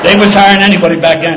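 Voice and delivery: loud, laughing through the words; laughing aside. Real, not acted. Admitting to the listener how easily he got hired, laughing. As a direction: crack up at your own joke. Joking about police hiring standards.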